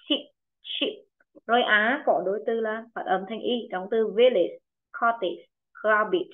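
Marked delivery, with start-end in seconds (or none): 0.1-1.0 "ship" with a short i, said softly; short i demo. Shown as a demonstration. Teacher softly models "ship" with a short i for the class. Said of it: "ý ngắn thì nó cũng thành ý ngắn fit".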